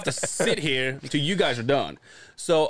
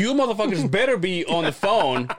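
retold anger; 4 semitones higher than usual. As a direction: vent it like a fed-up customer. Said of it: "so pissed".

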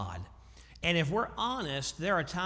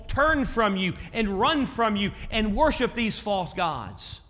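Habakkuk's complaint; 6 semitones higher, 6 dB louder than usual. Acted. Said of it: "he is complaining to God".

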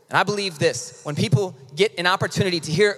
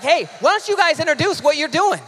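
much higher-pitched, enthusiastic call-out; eager request, imitated; 11 semitones higher, 4 dB louder than usual. Teachers standing up to ask volunteers, imitated eager request. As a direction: imitate someone excitedly handing over the floor. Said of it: "they stood up and they're like".

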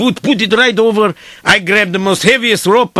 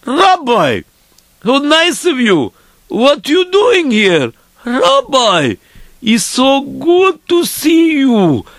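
higher, drawn-out welcome; delighted greeting; 4 semitones higher, slower than usual. Retold or imitated. Dreamer to the rabbi, delighted greeting. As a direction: greet an honored visitor with acted delight.

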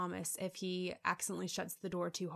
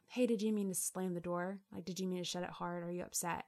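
gentle question. Retold or imitated. To husband about the slammed door, calmly and gently. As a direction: ask him kindly, just curious. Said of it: "Or he could have come through the door".

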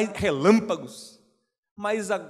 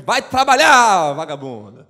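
mock scolding God; 5 dB louder than usual. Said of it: "vai me".

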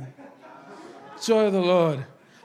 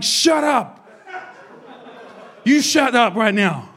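mock frustrated snap; 3 semitones higher than usual. Pastor mocking his own frustration at singer, comic shout. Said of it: "I'm like".

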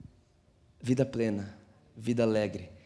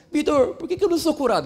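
lightly mocked plea, higher and louder; imitating a complaining questioner; 6 semitones higher, 5 dB louder than usual. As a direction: put on a churchgoer demanding an explanation. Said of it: "chegaram em mim e falaram assim".

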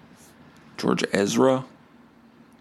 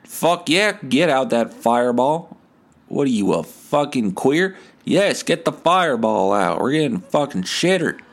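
raised-pitch rowdy party bro; impression of country partiers; 3 semitones higher than usual. Mocking rowdy country dudes, higher rowdy bro voice. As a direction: whoop it up like a drunk country dude. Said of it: "when I do that impression".

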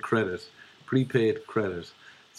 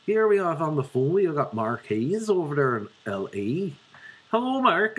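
radio host; 4 semitones higher than usual. Acted. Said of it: "So I'm on the radio".

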